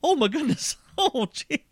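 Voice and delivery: high, giggly mock fluster; flustered schoolgirl impression. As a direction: swoon like a starstruck teenage girl. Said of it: "she's all flustered".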